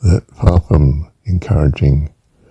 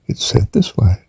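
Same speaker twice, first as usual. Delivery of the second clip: whispered aside; 3 semitones higher than usual. Shown as a demonstration.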